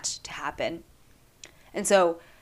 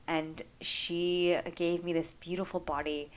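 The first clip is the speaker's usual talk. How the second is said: getting emotional; 6 dB quieter than usual. Real, not acted. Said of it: "I'm getting a little emotional now".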